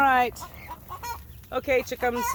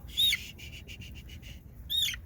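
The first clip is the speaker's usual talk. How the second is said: shushing softly; 8 dB quieter, slower than usual. Real, not acted. Shushing the hen.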